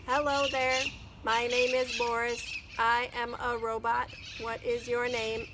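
robot voice. Acted. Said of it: "asked the robot".

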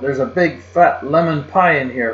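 put-on a kid calling to grandpa about a pie, high and excited. A narrator's reading. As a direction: call out thrilled about the pie.

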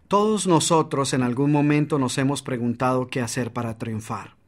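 level, unvaried read fading at the end; flat monotone. Shown as a demonstration. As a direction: say it flat and dull. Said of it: "en lugar de esto dijeras".

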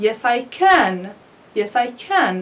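can said full and clear, stressed at the end; strong form of can. Shown as a demonstration. Teacher shows students the strong can in a short answer. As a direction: give can its full vowel. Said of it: "This is a strong form".

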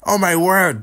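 high-pitched excited referee yell; hammed-up screaming fight call; the speaker screaming. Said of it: "then the speaker screaming"

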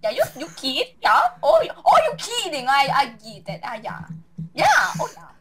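put-on sing-song Swedish accent voice. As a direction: bounce it in a mock Swedish accent. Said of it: "my Swedish one".

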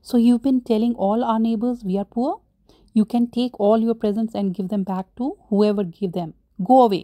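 rising angry shout, up to a yell. Retold or imitated. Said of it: "Mister Perks said angrily".

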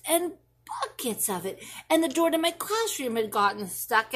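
put-on a child spinning what-ifs for mom; worried child.

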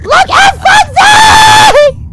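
very high, loud, slow scream; shrieked plea to pay attention; exasperated yelling. Real, not acted. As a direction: scream it with the name stretched out. Yells at game character over dog.

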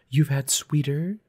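high, slow taunting question; challenging. A narrator's reading. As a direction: dare him with a drawn-out question. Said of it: "she challenged".

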